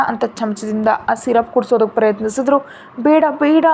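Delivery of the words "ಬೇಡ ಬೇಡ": put-on higher, louder whiny child refusing; a teary no, no; crying refusal. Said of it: "ಅಂತ ಅಳ್ತಾ ಹೇಳ್ದ".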